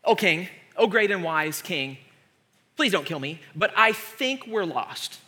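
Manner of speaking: meek servant pleading; timid assistant. Acted. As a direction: break bad news gingerly to your ruler. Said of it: "His assistant comes to him and says".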